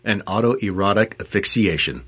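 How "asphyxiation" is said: "asphyxiation" with the first s dropped, a-fixiation; mispronounced word. Real, not acted. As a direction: say "asphyxiation" as uh-fixiation, without the opening "as". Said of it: "You can't even do it right".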